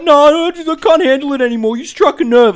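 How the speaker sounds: high, loud, fast hammed-up huff; high mock dramatic exit; mock storming off. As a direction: storm off squealing. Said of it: "You know, like".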